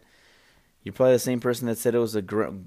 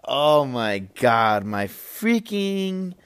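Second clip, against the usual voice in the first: laughing; 3 semitones higher, 4 dB louder, much slower than usual. Real, not acted. Recovering from laughter.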